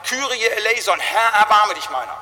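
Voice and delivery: loud, pleading cry; crying for mercy. Retold or imitated. Pastor voicing a true believer crying for mercy. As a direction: beg for mercy with full voice. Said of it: "dass jemand schreit".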